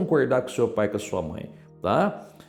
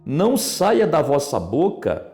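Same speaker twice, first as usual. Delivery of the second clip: scripture reading; 3 semitones higher, 4 dB louder, slower than usual. Acted. Pastor reads verse aloud.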